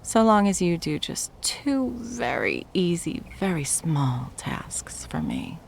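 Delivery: slow, intimate whisper. Acted. Ex whispering her two conditions to her debtor. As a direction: whisper the terms as if they were a gift. Seductive bargaining.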